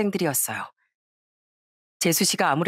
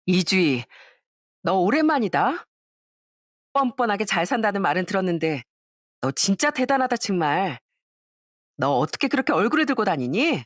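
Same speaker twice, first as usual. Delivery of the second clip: lightly voiced sneering classmate, taunting; a hint of a spiteful old classmate gloating; mocking classmate. (살짝 연기한 비꼬는 동창 목소리)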